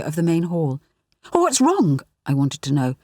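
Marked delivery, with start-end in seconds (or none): 1.3-2.0 higher, anxious question; worried. A narrator's reading. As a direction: ask with rising worry. Worried mother asks.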